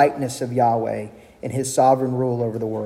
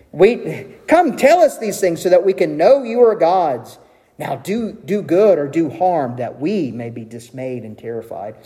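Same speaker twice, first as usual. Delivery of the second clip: mocking challenge. God mocks the idols of the nations, mildly taunting. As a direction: taunt them a little, starting raised and easing down. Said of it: "God mocks them by saying".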